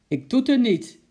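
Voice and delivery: loud, high retort; terugroepen. A narrator's reading. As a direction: shout back across the garden. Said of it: "riep de meneer terug". (luid en hoog terugroepen)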